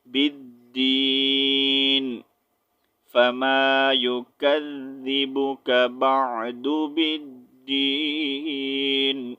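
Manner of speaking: slow, drawn-out tajweed chant; Quran recitation. Shown as a demonstration. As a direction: stretch each word in a slow melodic chant. Recites the finished verse.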